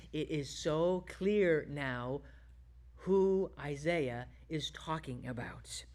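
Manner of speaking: whispered, slowing with wonder; awed whisper. Real, not acted. Preacher marvels at Isaiah's prophecy, whispering. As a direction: breathe it like a secret revealed. Awed realisation after the reading.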